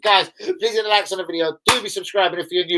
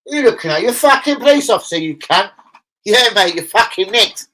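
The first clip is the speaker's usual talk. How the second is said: a hint of a barking police officer, louder; hammed-up arrest, louder; mock copper; 4 semitones higher, 6 dB louder than usual. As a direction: bust him like a cop.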